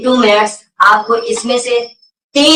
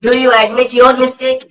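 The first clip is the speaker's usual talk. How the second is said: very slow, word-by-word question for learners to copy; drilling the question at dictation pace; slow model question; 3 semitones higher, much slower than usual. Shown as a demonstration. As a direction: spell it out slowly like a teacher. Teacher models question for class.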